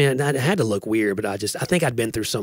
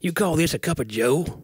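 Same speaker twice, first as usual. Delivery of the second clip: higher, put-on southern grumble; southern accent; 5 semitones higher than usual. Customer questioning the tiny coffee, southern accent. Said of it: "go into that southern accent".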